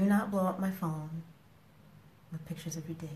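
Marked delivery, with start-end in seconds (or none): 2.3-3.1 hushed whispered warning; whispered stern aside. Real, not acted. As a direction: drop to a whisper for emphasis.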